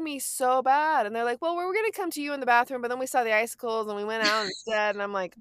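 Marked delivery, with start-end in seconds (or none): 1.4-4.9 imitating the boys, higher and fast; chirpy innocent kid voice, rattled off quickly; kids' excuse. Kids explain the icicles.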